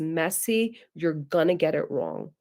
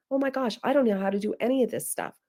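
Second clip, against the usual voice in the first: quick, slightly higher mock fluster; flustered parent; 4 semitones higher, faster than usual. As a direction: rattle it off like an overwhelmed parent. Voices an overwhelmed parent listening.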